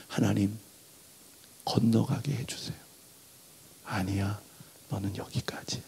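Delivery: hushed, sorrowful pleading; whispered plea. Retold or imitated. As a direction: Moses pleading in a whisper to cross over.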